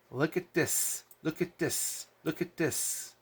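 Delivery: lightly mocking teacher pointing things out; preschool read-along. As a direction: repeat it patiently, as if to small children. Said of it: "read together like we're in preschool".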